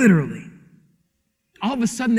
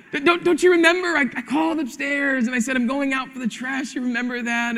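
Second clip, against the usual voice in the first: gentle reminder; 4 semitones higher, 4 dB quieter than usual. Retold or imitated.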